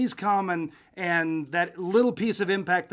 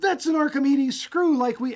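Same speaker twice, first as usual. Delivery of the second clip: put-on excited voice, pitched higher; 7 semitones higher, 3 dB louder than usual. Retelling how the co-host reacted on spotting a machine: imitating Beth's excited voice. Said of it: "she got so excited".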